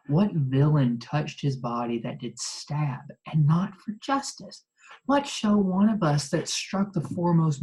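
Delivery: measured start, building to emphatic indignation; dramatic Shakespeare reading. Acted. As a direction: declaim it as Brutus rebuking Cassius. Reads Brutus's speech aloud.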